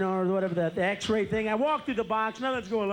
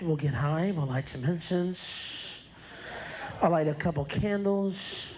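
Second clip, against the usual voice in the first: seductive groupie; 4 semitones lower than usual. Acted. A woman after the show tempting the comedian, lower sultry voice. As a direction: purr the offer like a tempting fan.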